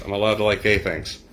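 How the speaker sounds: flat, dry deadpan delivery. Retold or imitated. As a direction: say it completely dry. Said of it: "Patrick Warburton just deadpans".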